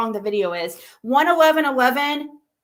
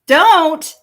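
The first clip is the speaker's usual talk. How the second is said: sharp don't; 5 semitones higher, 10 dB louder than usual. Real, not acted. Someone interrupts sharply.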